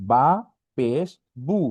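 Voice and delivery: "বা পেশ বু" in separated words, final oo; spelling drill. Shown as a demonstration. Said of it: "পেশের উচ্চারণ হচ্ছে উকারের মতো".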